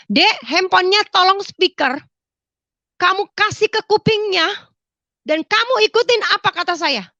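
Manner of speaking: high, insistent retold phone orders; urgent instruction. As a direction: direct them urgently over the phone.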